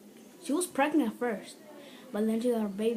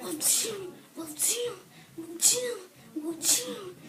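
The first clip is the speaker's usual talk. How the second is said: high repeated call; 9 semitones higher, slower than usual. Retold or imitated.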